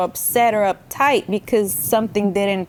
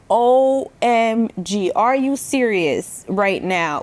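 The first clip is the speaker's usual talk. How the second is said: retold disbelief; slower than usual. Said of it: "there's been moments and situations where I'm like".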